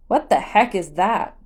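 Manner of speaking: loud, sharp demand; guard loudly demanding an answer. Acted. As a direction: demand it of the stranger. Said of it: "he demanded".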